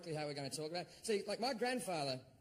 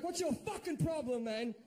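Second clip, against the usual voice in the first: mock angry; 5 semitones higher than usual. Angry retort to laughing gunner.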